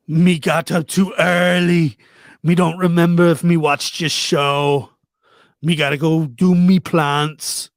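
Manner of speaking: put-on light Jamaican accent; playful Jamaican patois. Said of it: "that wasn't that bad of a Jamaican accent".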